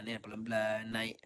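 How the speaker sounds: whispered gentle coaching. Real, not acted. Ustaz coaching quietly during recitation, whispered. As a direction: breathe the hint softly. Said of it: "whispered coaching".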